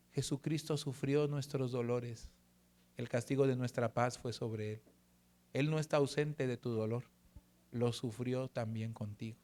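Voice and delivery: hushed sincere comfort to his wife; tender reassurance. Real, not acted. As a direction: gently console a wife in pain. Comforting his suffering wife at night.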